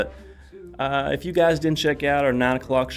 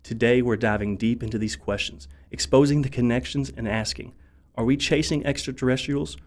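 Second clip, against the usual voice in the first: ominous documentary narration; dramatic intro narration. Acted.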